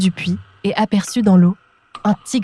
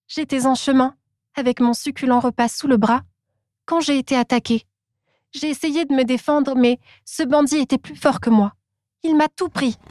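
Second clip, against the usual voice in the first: higher, small rabbit spinning a sorry tale; Rabbit's high voice; 5 semitones higher than usual. Acted. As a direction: play the little rabbit fibbing innocently to Tiger. Rabbit tells his made-up story.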